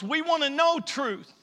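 loud, high preaching peak; emphatic climax. Real, not acted. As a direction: ring it out to the whole congregation. Preacher's climax, then quiet repeat.

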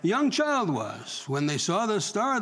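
slow, emphatic Bible reading; measured pulpit narration with stretched phrases; scripture reading. Real, not acted. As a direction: draw out key words as you read. Reads scripture aloud to congregation.

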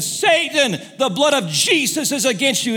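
mock yelling at the devil on the roof; retold shout. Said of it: "I began to shout".

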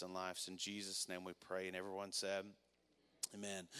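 soft, low prayer voice; hushed, low prayer to the congregation; quiet prayer. Acted. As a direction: pray it softly and intimately. Pastor leads prayer.

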